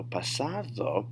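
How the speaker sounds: "pasado" with the d softened to th; soft D. Shown as a demonstration. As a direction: soften the middle of "pasado" to "pa-sa-tho". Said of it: "gonna have a T H sound".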